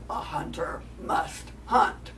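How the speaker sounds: low, slow whispered menace; a low predator's growl. Acted. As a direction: coyote bares his teeth and growls. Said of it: "he showed his teeth and he growled".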